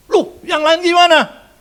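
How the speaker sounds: high, loud, slow accusing question; angel's loud slow reproach; angry rebuke. Acted. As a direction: drag it out like a stern judge.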